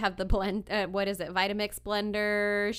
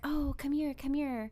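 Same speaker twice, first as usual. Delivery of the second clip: lightly imitated salesperson, higher pitch; pushy mall salespeople; 5 semitones higher than usual. Mall kiosk sellers calling shoppers over, lightly mimicked pushy coaxing. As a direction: coax a passerby over, pitched up. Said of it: "there would be those people".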